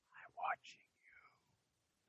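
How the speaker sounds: slow creepy whisper. Retold or imitated. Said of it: "This one's just like".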